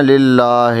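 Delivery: للہ clipped as lilla with no ha; common mistake. Retold or imitated. Teacher imitating how people drop the ha in للہ. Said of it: "اس کو لوگ پڑھتے ہیں".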